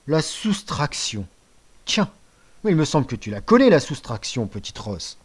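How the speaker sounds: mock him, then let it drop; sarcastic father. Father mocks son. (père sarcastique)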